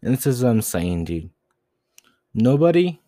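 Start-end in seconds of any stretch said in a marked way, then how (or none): 2.3-3.0 shouted word. Real, not acted. Ranting at audience.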